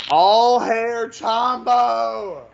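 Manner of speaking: booming, very high, loud acted-out shout. Telling a story of standing alone in a pentagram, retelling a real loud call. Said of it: "real loud".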